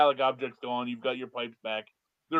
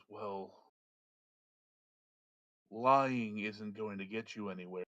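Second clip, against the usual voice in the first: smirking wizard; 4 semitones lower, 7 dB quieter, slower than usual. Acted. Smirking wizard calls out a lie.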